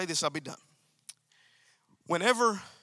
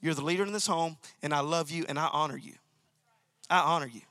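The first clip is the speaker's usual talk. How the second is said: softer, tender and sincere; loving, honoring tone; 4 semitones lower, 3 dB quieter, faster than usual. Shown as a demonstration. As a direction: honor him gently with your voice. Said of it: "laced with the attitude that says".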